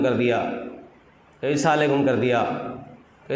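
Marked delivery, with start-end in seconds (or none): 1.5-2.1 السلام علیکم squashed to "saa-lekum"; slurred greeting. Shown as a demonstration. Preacher imitates careless greeters, السلام علیکم clipped to "saalekum". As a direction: drop the middle of السلام علیکم. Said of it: "کبھی کبھی آپ نے دیکھا ہوگا، ایسے کر دیا".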